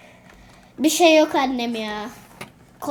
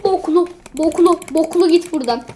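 louder angry yell at the enemy; annoyed yelling; 3 semitones higher, 4 dB louder than usual. Real, not acted. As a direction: chase it off, shouting.

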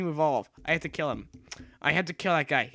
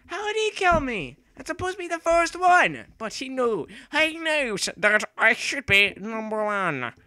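much higher, strained outraged voice; odd voice; 8 semitones higher, 4 dB louder than usual. Real, not acted. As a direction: squeak it out in disbelief. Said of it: "I do not know why I'm speaking like that".

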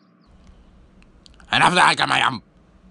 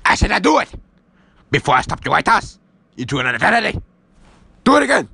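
barked order; 4 semitones higher than usual. Acted. Master shouting orders.

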